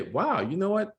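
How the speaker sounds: a teacher handing a kid a book, mock excited encouragement. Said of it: "give a kid a book and say".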